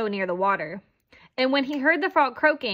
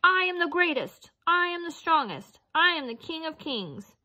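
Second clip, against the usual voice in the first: high, proud booming boast; hammed-up lion boasting; boastful lion; 7 semitones higher than usual. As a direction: brag like the king of beasts. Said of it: "roaring so loud the earth shook".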